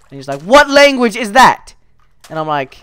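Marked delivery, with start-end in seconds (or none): 0.4-1.7 high, loud, slow mock outrage; hammed-up incredulous yell; incredulous outburst. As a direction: demand it in loud disbelief. Voicing Bob's outraged question.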